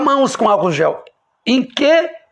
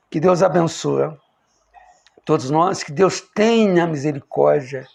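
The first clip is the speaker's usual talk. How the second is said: low-pitched closing benediction; closing blessing; 5 semitones lower than usual. Real, not acted. Preacher asking God's mercy on all of us, lowered blessing.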